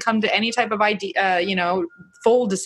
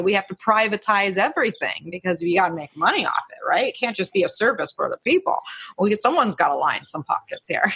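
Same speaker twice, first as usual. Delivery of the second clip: politician voice. Retold or imitated. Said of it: "that's my politician voice".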